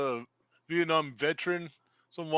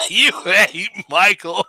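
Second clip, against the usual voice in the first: laughing; 3 semitones higher, 11 dB louder, slower than usual. Real, not acted. Laughing while teasing friend.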